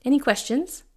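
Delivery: doctor wrapping up the visit, perfunctory. A narrator's reading. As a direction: tick the box and move on. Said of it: "a perfunctory smile".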